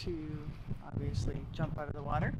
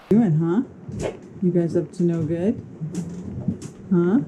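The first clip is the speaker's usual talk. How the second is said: loud teasing call across the boat; 9 dB louder than usual. Real, not acted. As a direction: call out to the crew, playful. Calling out to crew loudly.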